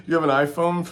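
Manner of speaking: laughing through the question; can't keep a straight face. Real, not acted. Laughs at own joke.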